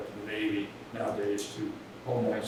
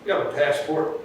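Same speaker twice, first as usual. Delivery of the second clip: laughing mockery; 5 semitones higher, 12 dB louder than usual. Mocking the stranded sailor at door.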